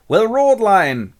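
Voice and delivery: loud, high shout of praise; audience cheer. Acted. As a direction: call out bravo from the crowd.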